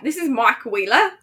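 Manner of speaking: hesitant attempt at an Australian accent; failed Australian accent. Shown as a demonstration. Co-host trying after being told to try, bad Australian accent. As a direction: badly attempt Aussie, slipping toward British. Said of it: "I can't do any of that".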